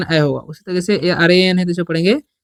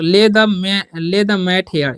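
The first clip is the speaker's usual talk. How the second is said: slow dictation; much slower than usual. Shown as a demonstration. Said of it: "या बोल सकते हैं बिछाना".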